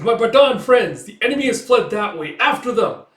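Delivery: high, loud, proclaiming call; rally allies to the chase; rallying shout. Retold or imitated. Commander sends allies after fleeing enemy, rallying shout.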